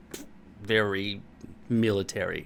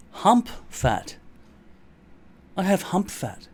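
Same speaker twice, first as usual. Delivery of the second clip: high, pitched-up lament; high-pitched mock distress; upset whine; 9 semitones higher, 3 dB louder, slower than usual. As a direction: wail it in self-pity. Upset over his hump fat.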